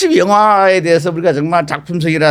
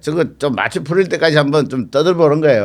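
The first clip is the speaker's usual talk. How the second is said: numb from the dentist. Real, not acted. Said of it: "마취도 안 풀리는데".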